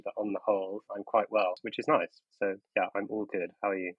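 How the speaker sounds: stuffy nose from a cold; nasal voice. Real, not acted. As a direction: speak through a blocked nose. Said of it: "apologies if I sound a bit nasally".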